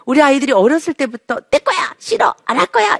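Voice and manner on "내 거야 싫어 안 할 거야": high mock toddler shouting no; child's high defiant protest. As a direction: squeal it like a child refusing. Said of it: "이러면서도".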